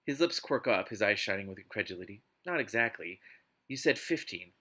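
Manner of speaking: dramatic novel reading; expressive audiobook narration; story narration. Acted. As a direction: read it out like an overwrought romance audiobook. Reads a novel aloud.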